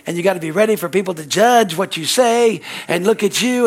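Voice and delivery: high, loud preaching push; fiery exhortation. Acted. Preacher urging the church to act, loud and high. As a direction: drive it home to the congregation.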